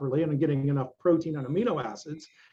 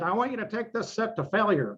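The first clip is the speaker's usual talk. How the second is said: imitating Mike Mentzer; 5 semitones higher than usual. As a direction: quote the old-school coach with calm menace. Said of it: "That's the way he talked".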